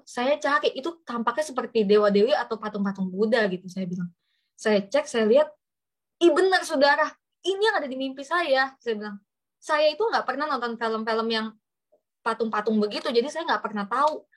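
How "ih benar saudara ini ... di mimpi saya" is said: startled discovery. Retold or imitated. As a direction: exclaim as if you just found proof. Retelling her startled discovery online. (seruan kaget karena ternyata benar)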